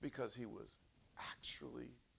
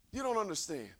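ordinary talk, nothing marked

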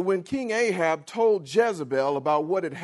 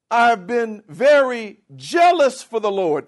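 self-righteous proclaiming; 3 semitones higher, 8 dB louder than usual. Acted. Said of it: "And he said".

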